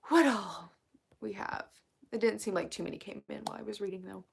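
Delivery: creaky vocal fry voice. Real, not acted. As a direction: talk with a croaky vocal fry. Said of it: "really bad vocal fry right now".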